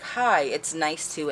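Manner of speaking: lightly imitated slow, careful greeting; a hint of halting speech, drawn out slowly. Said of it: "he's speaking really slow and halting".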